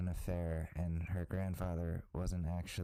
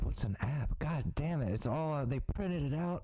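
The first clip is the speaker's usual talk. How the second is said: higher-pitched, mock-dismayed elder; baffled old-timer; 6 semitones higher than usual. Comedian as dead cheater discovering DNA apps, mock dismay. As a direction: play an exasperated technophobe getting caught out.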